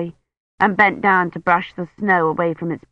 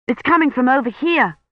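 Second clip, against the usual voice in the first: eager call; 7 semitones higher than usual. Acted. Colin eager at the bell.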